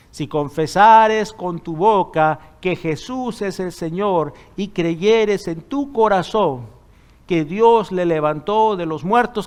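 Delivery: slow, deliberate recitation of the verse; measured preacher's reading; slow scripture quote. Acted. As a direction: lay out each word of the promise slowly. Pastor quoting scripture verse.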